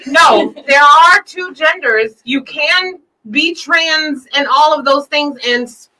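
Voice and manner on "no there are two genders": tipsy giggle through the words. Real, not acted. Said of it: "I'm a little tipsy".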